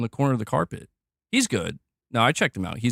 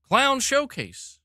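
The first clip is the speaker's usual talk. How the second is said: slow sarcastic announcer drawl for the clown punchline; mock clown announcement; 9 semitones higher, slower than usual. Streamer renaming the event for chat, slow mocking announcer drawl. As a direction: stretch out "Clown Showcase" like a circus barker's joke.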